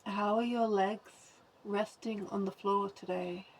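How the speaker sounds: calm, measured guidance with long pauses; guided body scan. Acted. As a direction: guide attention through the body, leaving space after each phrase.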